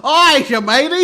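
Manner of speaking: loud hammed-up British accent; exaggerated cockney call; mock British accent. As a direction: bark it like a cartoon Brit. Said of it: "I actually hear myself".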